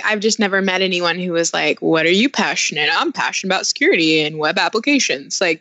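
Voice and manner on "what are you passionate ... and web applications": lightly imitated security-guy accent, a touch Southern; a hint of an unintended Southern accent; mock security accent. Co-host imitating the passionate security expert, mock security accent. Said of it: "that's exactly how Brian sounds".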